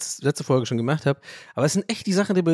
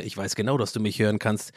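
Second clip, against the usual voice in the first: quiet thought voice; 4 semitones lower, 3 dB quieter than usual. Retold or imitated. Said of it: "man hört halt so seine Gedankenstimme".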